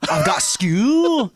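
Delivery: loud, slow, high-pitched boast; high mock voice. Host doing a silly bit for co-host, high drawn-out voice. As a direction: stretch it out in a high put-on voice. Acted catchphrase bit, traded between hosts.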